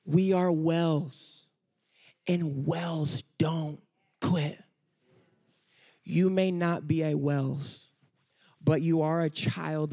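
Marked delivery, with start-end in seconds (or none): 0.0-4.6 gentle encouragement. Retold or imitated. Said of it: "Canaan goes over to him and says".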